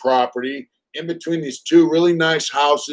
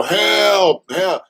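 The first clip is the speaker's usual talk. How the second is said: higher mock cries of help; mocking echo of help; 6 semitones higher than usual. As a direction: parrot his yell back. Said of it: "And I go".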